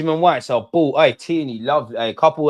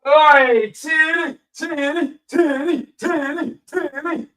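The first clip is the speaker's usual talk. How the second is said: calling out; much slower than usual. Real, not acted. Fan calling a player's nickname, high playful chant. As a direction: sing out the nickname over and over.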